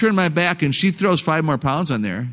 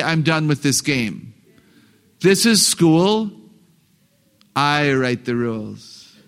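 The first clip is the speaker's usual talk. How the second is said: stern parent; 2 semitones lower, slower than usual. Acted. Parent ending the child's game, slow stern authority. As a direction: lay down the law slowly. Voices parent laying down rules.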